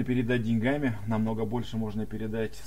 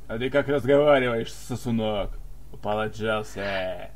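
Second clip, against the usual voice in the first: drill sergeant; 5 dB louder than usual. Acted. Drill-sergeant reply to chat.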